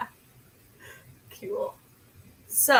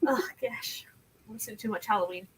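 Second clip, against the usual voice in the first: whispering; 3 semitones lower, 6 dB quieter, much faster than usual. Real, not acted. Embarrassed aside after spooky greeting.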